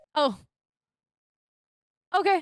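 audibly upset tone, short and clipped. Told they shouldn't get the property, the speaker answers, sounding upset. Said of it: "Why do you sound upset?".

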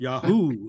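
Yahoo with the stress placed on hoo. Repeating how Calgary people in a booth said it, stress on second syllable of Yahoo. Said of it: "the emphasis seemed to be on the who".

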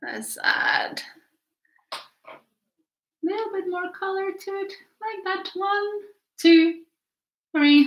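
high, tiny, little voice. Painting a tiny ship and talking to Caleb, in a high-pitched voice. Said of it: "I'm speaking in the high pitch".

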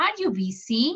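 voice lifts at the end on busy. Teaching question intonation, rising intonation on 'busy'.

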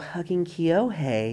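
tiny, soft, high-pitched, unfamiliar little voice. Retelling how an unfamiliar person answered at a convention, imitating a high-pitched little voice. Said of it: "high-pitched little voice go".

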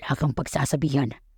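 hushed, secretive, soft whisper up close. A man speaks right in front of the narrator's face during a nightmare, whispered. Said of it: "Bulong ng lalaki".

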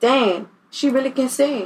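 ordinary talk

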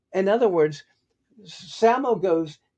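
ordinary delivery

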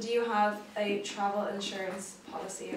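normal talking voice

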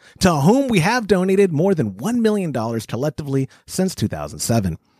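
plain

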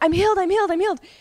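full-out shouting, loud and high-pitched. Speaker re-enacts yelling out before surgery, retelling yelling. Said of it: "But I'm yelling".

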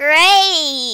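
smiling while talking, drawn-out smiley great. Showing how people sound when they smile while talking: smiling while talking. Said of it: "where they smile while talking".

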